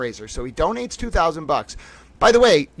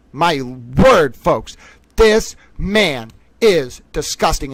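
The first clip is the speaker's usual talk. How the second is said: disgusted; 5 dB louder, much slower than usual. Real, not acted. Disgust at the quoted post.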